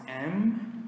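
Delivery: M said as "em", ending with lips closed; closed-mouth M. Shown as a demonstration. Teacher separating M from N, M ending with mouth closed. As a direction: hold M on a closed-lip hum. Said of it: "I close my mouth".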